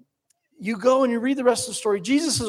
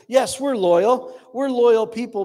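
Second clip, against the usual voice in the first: mock proclamation; 4 semitones higher, 6 dB louder than usual. Mocks easy church proclamations.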